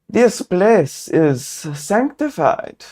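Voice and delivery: robed guardian warning the intruder; stern cultist. Acted. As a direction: intone it like a guardian of the grove. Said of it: "strange accent".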